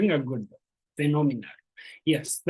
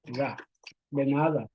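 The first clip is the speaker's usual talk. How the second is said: "de nada" drawn out slowly; slow, careful "de nada"; slow demo pronunciation; much slower than usual. Shown as a demonstration. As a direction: model "de nada" slowly for learners. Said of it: "we say".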